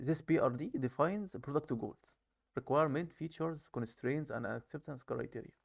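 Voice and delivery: slow, careful reading of the English text; slow reading aloud. Shown as a demonstration. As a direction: read each English phrase out slowly, word by word. (قراءة بطيئة بصوت عالٍ للنص الإنجليزي)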